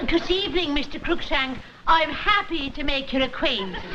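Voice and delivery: mock Scottish accent drifting Irish; a wobbly Scottish brogue that comes out Irish; Irish-sounding Scottish try. Wife practising Scottish for the son's father, accent slipping Irish. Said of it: "you sound like a spy for the I R A".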